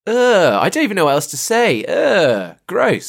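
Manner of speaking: high, disgusted groans; annoyed ugh. Real, not acted. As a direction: recoil in disgust. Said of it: "They sound disgusting".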